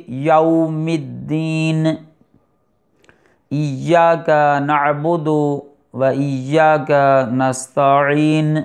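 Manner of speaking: slow measured recitation; Quran recitation. Shown as a demonstration. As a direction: recite slowly, each letter clear. Reciting Surah Fatiha slowly. (آہستہ تلاوت)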